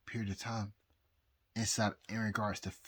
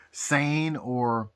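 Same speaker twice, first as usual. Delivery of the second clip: tipsy, loose delivery. Real, not acted. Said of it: "I'm so drunk right now".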